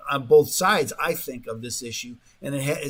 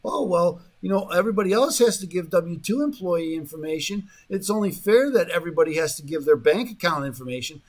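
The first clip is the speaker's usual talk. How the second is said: lightly imitating harmless-sounding reassurance; mildly mocking official spin; mock innocuous; 3 semitones higher than usual. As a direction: make it sound perfectly reasonable, a little higher. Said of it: "it sounds so innocuous".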